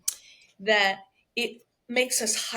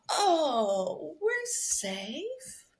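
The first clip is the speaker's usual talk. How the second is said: soothed "oh", words stretched and lilting; acted relief; much slower than usual. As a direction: voice the brain sighing into safety. Voices the brain's relief.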